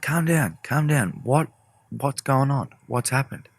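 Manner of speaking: high, softened urgent reassurance; retold calming concern. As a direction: gently talk someone down, acting it out. Calming the upset friend.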